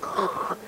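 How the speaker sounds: breathy whoosh of pouring water; imitated gushing water. Agent describing the dripping bathroom, imitated whoosh.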